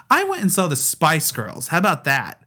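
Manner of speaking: sarcastic retort. Retold or imitated. Retelling a sassy answer to the customs agent, mock defiant. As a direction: snap back at the agent with attitude. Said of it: "In that tone?".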